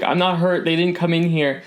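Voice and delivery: explain, still rattled; shaken shopkeeper. Acted. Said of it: "and she just says".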